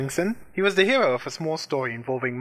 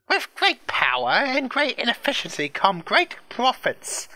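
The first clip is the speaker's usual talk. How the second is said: furious; 10 semitones higher, 4 dB louder, slower than usual. A narrator's reading. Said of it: "Friday Santana was furious".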